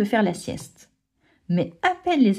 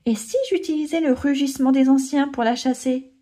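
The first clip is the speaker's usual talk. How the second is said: lightly voiced cub; 5 semitones higher than usual. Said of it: "explique Kayon".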